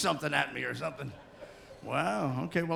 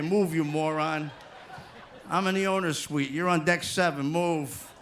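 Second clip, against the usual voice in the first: rude American; slower than usual. Retold or imitated. Rude American shoving in line.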